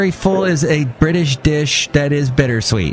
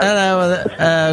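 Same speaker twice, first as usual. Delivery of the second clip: mock British accent; 3 semitones higher than usual. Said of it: "I would do a British accent right now".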